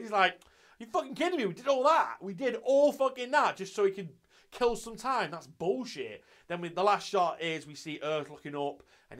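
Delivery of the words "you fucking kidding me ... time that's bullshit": imitating annoyed protest, pitched up; mock exasperation, higher and settling at the end. Ai protesting over wasted duel effort, mock annoyed.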